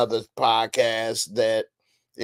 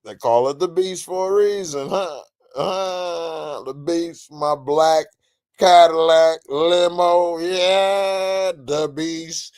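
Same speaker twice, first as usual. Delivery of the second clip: lightly voiced Trump, drawn out; a hint of Trump boasting; Trump impression; 4 semitones higher, 4 dB louder, slower than usual. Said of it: "that's my Trump impression".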